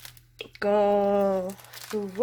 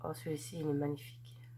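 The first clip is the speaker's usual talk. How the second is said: hushed, breathy whisper of delight; soft whispered admiration; awed whisper; 5 semitones lower, 12 dB quieter than usual. Real, not acted. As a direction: breathe it out as if it's too lovely to speak aloud.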